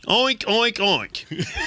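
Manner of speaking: pig oinks. Acted. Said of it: "That sound like a pig".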